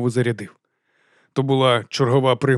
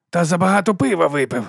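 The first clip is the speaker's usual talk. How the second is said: fake laugh; 5 semitones higher than usual. A narrator's reading. Morvir laughs off the body to the crowd. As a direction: call it out over the crowd with a forced chuckle. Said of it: "перекричав Морвір натовп фальшивим смішком".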